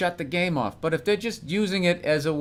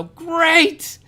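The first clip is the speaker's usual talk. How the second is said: sarcastic great; 10 semitones higher, 4 dB louder than usual. Retold or imitated. Mock cheerful reply to girlfriend.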